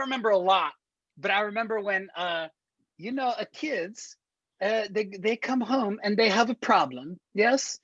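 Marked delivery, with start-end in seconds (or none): 3.0-7.8 put-on Borat accent rising higher; high Borat accent building. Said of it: "I do the Borat".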